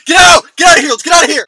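high, loud yelling to flee; panicked shout. Acted. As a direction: yell at your buddy to run. Panicked getaway from the house.

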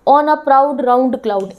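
each word drawn out slowly so the vowel sounds can be heard; teacher slowly reading a line aloud. Shown as a demonstration. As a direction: read it slowly, stretching the repeated o sound. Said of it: "इसमें भी ओ vowel sound आ रही है".

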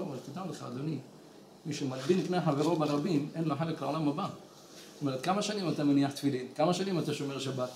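low, soft voice of a respected man; calm, gentle reproof. Retold or imitated. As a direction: reprove him quietly and politely, keeping the pitch down. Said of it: "הוא דיבר איתו יפה, בנחת".

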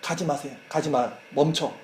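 훨씬 작고 낮게 애원하는 유령 목소리; 멀리서 속삭이듯 간절히 붙잡는 말; quiet pleading ghost. Retold or imitated. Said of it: "딸에게 그걸 보낸 거야". (갇힌 아빠가 딸에게 보내는 작고 간절한 애원)

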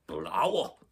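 mock gagging exclamation; storyteller's acted disgust; retching in disgust. A narrator's reading. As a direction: spit it out queasily. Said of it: "sagde Viggo og gylpede".

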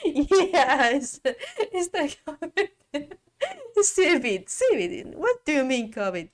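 high, loud, laughing through it; incredulous giggling at the joke; laughing disbelief. Real, not acted.

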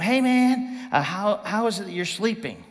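politely puzzled captain, lightly acted; mock elegant. Captain courteously approaching the sleeping Jonah, mock elegant. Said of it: "like, elegant".

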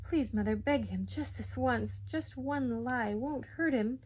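beg, stretching the last phrase slowly; pleading. Acted. Boy asks mother to beg father, pleading. Boy begs for one lie.

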